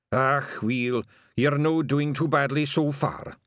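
slow, kindly Scots reassurance; nicer tone. A narrator's reading. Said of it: "he said in a nicer tone of voice".

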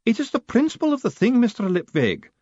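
a formidable lady laying down the law; imperious high-pitched battleaxe; demanding old woman. Acted. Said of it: "said the woman firmly".

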